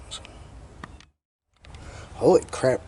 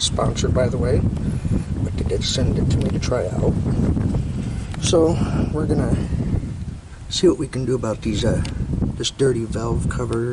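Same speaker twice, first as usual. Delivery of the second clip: raised voice over gusty wind; shouting over wind; 3 dB louder than usual. Real, not acted. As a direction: speak up so the mic hears you outdoors. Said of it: "Sorry about the wind noise".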